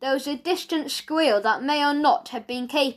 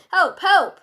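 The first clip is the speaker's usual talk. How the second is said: high, loud repeated cries; shout for help; 6 semitones higher, 6 dB louder than usual. A narrator's reading. Malcolm calling for rescue from the men, shouting. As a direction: call urgently for rescue, pitched up. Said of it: "shouted Malcolm".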